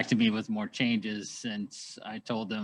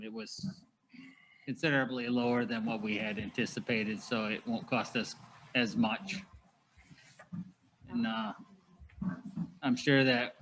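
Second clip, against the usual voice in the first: through a face mask. Real, not acted. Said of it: "I'm struggling to speak through the mask".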